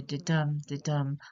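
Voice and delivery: "de-dum" with a light "de" and a stressed "dum"; iambic beat. Shown as a demonstration. Teacher showing everyday speech rhythm, "de-dum" stressed on "dum". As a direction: tap out "de-dum", weight on each "dum". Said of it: "unstressed, stressed".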